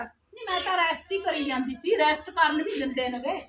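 soft, aggrieved complaint; hushed, put-upon tone; subdued grumble. Acted. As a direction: grumble under your breath to be pitied. Complains wearily to favoured daughter-in-law.

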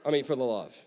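quiet, weary, exasperated; a Jesus who's tired of repeating himself; soft exasperated sigh of a reply. Retold or imitated. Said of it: "And Jesus is like".

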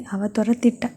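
hushed unvoiced grumble; a whispered complaint. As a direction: breathe it out in a sulky whisper.

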